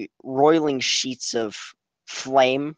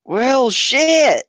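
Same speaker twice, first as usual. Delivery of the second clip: surprised curse; 12 semitones higher, 6 dB louder than usual. Acted. Reacting to the portal.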